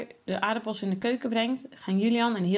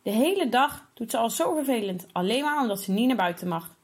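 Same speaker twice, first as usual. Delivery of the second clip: put-on angry boy; 4 semitones higher than usual. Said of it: "Hij balt zijn vuisten van woede".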